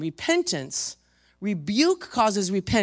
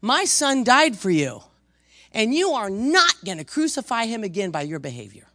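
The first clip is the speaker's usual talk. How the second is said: God's stern voice; 4 semitones higher, 6 dB louder than usual. Retold or imitated. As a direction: speak as God rebuking his children. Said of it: "the book of Hebrews says".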